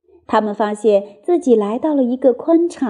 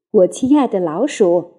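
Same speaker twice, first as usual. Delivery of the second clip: gentle; 5 semitones lower than usual. Acted. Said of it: "他温和地说".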